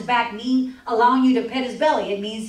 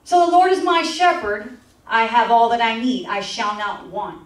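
scripture reading. Acted.

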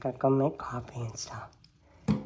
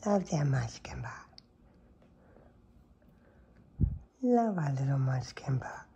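hushed, whispered endearment; tender whisper. Real, not acted. Owner whispers affection to her sleepy cat. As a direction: whisper your love to the cat.

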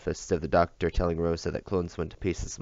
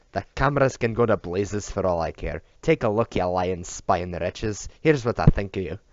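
defiant shout; 2 semitones higher, 5 dB louder than usual. Acted. Drunk bodyguard shouts defiance at the hidden cameras. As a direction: yell it straight at the cameras.

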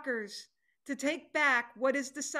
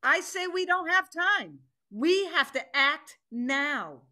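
forceful insistence; 3 semitones higher than usual. Acted. Tiger overrules Panda Bear before the council, forceful and firm. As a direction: shut down the argument.

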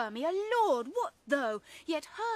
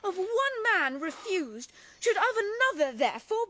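tearful lament; 3 semitones higher, 4 dB louder than usual. Acted. Helena weeps at being mocked.

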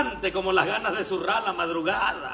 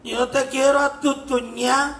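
put-on stubborn drunk; 3 semitones higher, slower than usual. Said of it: "Dice el borracho".

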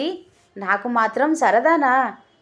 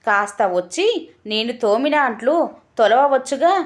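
calling out loudly. Acted. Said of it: "పెద్దగా అరిచాడు".

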